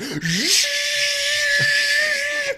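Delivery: long, very high, wild cackle; high wild shriek laugh. Acted. Character reacts with a wild cackle.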